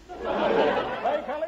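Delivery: slow startled wonder; slow amazed by golly. Acted. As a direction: stretch it out in wonder. Surprised at becoming a dog.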